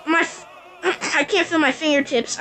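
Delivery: retelling the burn through nervous laugh-crying; laugh-crying panic. Real, not acted. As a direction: panicky laugh breaking into a sob. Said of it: "I'm freaking out".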